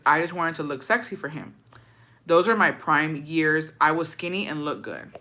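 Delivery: even read-aloud with little pitch movement; story read aloud. A narrator's reading. Reading a follower's ex-husband story, steady narration.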